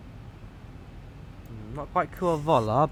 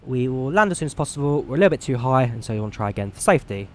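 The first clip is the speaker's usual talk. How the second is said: captain's cabin announcement; 4 dB louder, faster than usual. Acted. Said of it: "speak to passenger".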